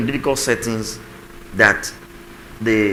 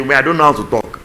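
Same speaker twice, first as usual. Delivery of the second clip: mock whiny spouse; 3 semitones higher, 5 dB louder than usual. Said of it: "this one spouse will say".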